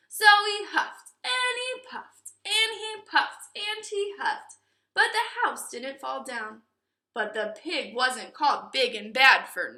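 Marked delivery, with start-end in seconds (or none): 0.1-4.6 huffing and puffing. A narrator's reading. Narrator acts huffing.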